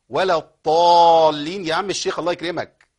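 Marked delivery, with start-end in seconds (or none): 0.1-1.7 «الضالين» long and loud with t for dad; dad turned into ta. Shown as a demonstration. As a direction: slowly chant «الضالين» wrongly with ط. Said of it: "إبدالها بحرف ما ينفعش". («الضالين» بطاء بدل الضاد)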